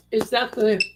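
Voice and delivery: talking through a bite of food; mouth full. Real, not acted. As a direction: chew and speak at once. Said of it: "I'm talking with my mouth full".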